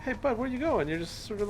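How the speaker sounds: high sing-song voice for a pet; pet talk. Real, not acted. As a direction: coax the animal like a puppy. Talking to a pet creature.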